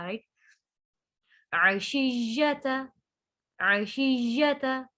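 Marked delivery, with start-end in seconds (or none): 1.5-4.9 slow, drawn-out tajweed recitation; Quran recitation. Shown as a demonstration. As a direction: recite it with ghunna on the noon. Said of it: "आइन को वाजे करेंगे". (धीमी तजवीद वाली तिलावत)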